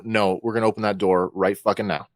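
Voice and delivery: understated no-nonsense demand; very serious. Acted. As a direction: drop the act and give a firm order. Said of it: "I'll get very serious and go".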